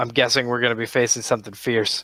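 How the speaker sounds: ordinary talk, nothing marked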